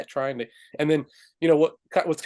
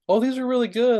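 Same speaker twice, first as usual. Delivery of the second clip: voiced high, a bit louder; high girl voice; 11 semitones higher, 4 dB louder than usual. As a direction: play the girl, pitched up. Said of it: "she's like".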